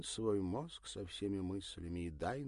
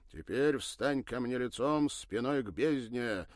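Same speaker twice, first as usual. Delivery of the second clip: mock gloomy command; 5 semitones higher, 8 dB louder than usual. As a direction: put on a darkly grim voice. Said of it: "нарочито мрачным голосом приказал".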